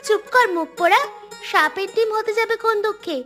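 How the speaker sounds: loud, irritated sibling retort; annoyed scolding. Acted. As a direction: shut the brother up crossly. Sister snaps back at teasing brother. (বিরক্ত ধমক)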